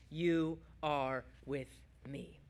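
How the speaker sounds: slow, low, soft and weighty; hushed reverence. Acted. Preacher unveils the psalm's middle line, hushed reverence. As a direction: let each word land slowly and softly.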